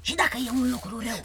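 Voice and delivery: fast, anxious hushed question; worried. Acted. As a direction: rush it out nervously. Crow worried about doing wrong.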